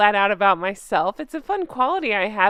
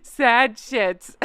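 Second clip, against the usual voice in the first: laughing. Real, not acted. Laughing at the nickname.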